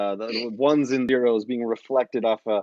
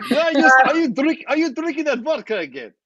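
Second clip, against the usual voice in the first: high and loud, calling him out over the vodka; high accusing voice; 13 semitones higher, 7 dB louder than usual. Acted. A character scolding Boras about the vodka, high and loud.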